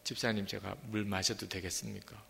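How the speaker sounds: sheepish guest asking permission; timid asking. Retold or imitated. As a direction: ask meekly, almost apologizing. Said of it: "냉장고 물 하나 마셔도요".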